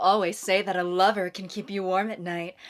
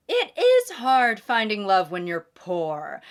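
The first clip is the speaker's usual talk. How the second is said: witch voice; 4 dB louder than usual. Acted. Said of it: "I sounded like a witch from a musical".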